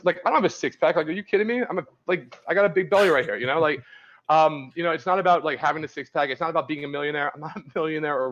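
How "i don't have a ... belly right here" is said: self-mocking protest. Real, not acted.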